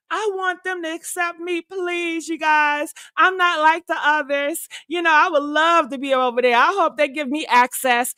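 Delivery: pleading wannabe voice. Retold or imitated. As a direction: beg to be let in, lightly mocking. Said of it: "Some black people are like".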